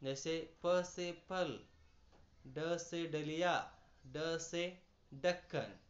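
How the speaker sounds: slow, spelled-out letter reading; slow teaching read. Shown as a demonstration. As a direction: read each letter and word slowly for pupils. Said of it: "इससे नुक्ता नहीं है". (धीमे, साफ़ पढ़ाना)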